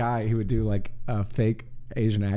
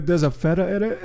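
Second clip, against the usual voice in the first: higher-pitched mock Asian accent through laughter; fake Asian accent; 5 semitones higher, 3 dB louder than usual. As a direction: imitate a prank caller's fake Asian accent. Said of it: "And it's in an Asian accent".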